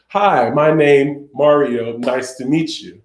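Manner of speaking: slow, separated stiff phrases; just hitting signs. Shown as a demonstration. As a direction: recite it sign by sign without flow. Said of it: "not to just hit the signs".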